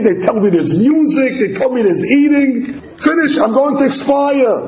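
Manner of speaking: put-on the baby is sure he's about to die; high, rushed, terrified; panicking. Fetus in birth canal panicking.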